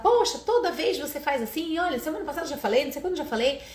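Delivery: mock a parent listing old faults, a bit fast; nagging parent. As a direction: parent nagging child about repeated mistakes, exasperated. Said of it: "não é pra falar".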